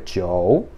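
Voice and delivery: "jiu" as "tchiou", dipping then rising; O in the middle. Shown as a demonstration. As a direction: slip an o into "jiu", swinging up. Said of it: "como se tivesse um O aí mesmo".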